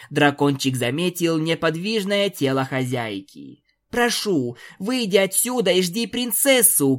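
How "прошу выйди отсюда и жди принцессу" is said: a high call, sniffling through tears; teary shout. Acted. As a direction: urge her out while fighting back tears. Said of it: "крикнула Пегаска, часто шмыгая носом". (сквозь слёзы, с криком)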